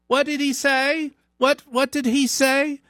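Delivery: very high, suspicious wife voice. Retold or imitated. Wife demanding what was said, very high and suspicious. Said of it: "She goes".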